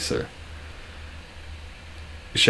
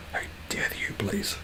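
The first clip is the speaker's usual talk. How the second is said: whispered mock indignation; mock offence; 2 semitones higher, 11 dB quieter than usual. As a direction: whisper it as if scandalised, half joking. Mock offence at being called British.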